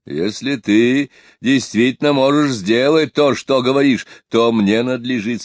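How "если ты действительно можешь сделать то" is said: ordinary delivery, nothing marked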